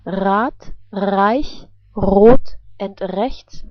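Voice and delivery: Rad, Reich, Rot, Rechts with a throaty R. Shown as a demonstration. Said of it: "at the beginning of a word".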